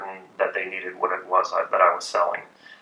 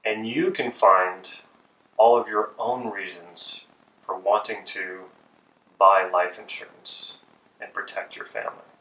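slow closing pitch. Shown as a demonstration. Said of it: "I closed the loop by saying".

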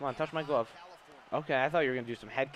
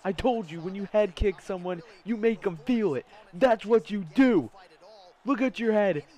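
raised, higher-pitched crowing; triumphant gloating; 5 semitones higher, 3 dB louder than usual. Real, not acted. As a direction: drive each phrase home at a beaten rival. Lecturing the knocked-out opponent.

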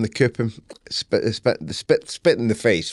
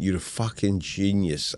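smug inner voice; 7 dB quieter, slower than usual. Retold or imitated. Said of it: "the other voice is saying".

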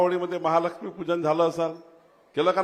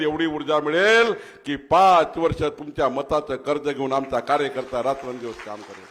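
ordinary delivery

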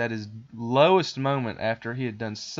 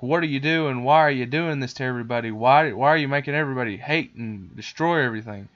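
mock confrontation, louder and insistent; hammed-up indignant questioning; confronting; 2 semitones higher, 6 dB louder than usual. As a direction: challenge him, pushing the volume up. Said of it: "they confront this boy".

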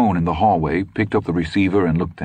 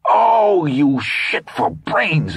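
moan; 11 semitones higher, 3 dB louder, much slower than usual. A narrator's reading. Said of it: "he suddenly moaned".

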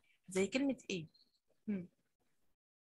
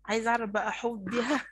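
slow, clear reading; 4 dB louder than usual. Shown as a demonstration. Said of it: "بها مد إيه؟".

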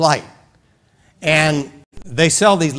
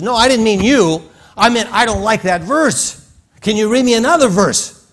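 woman's voice; 8 semitones higher, 4 dB louder than usual. Retold or imitated.

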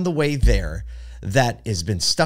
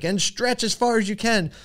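yoga instructor flight attendant; 11 semitones higher than usual. Retold or imitated. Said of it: "She's like".

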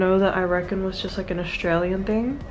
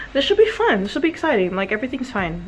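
insisting all is fine, pitch sliding down; mock reassurance. Tense self-reassurance before one-day rehearsal.

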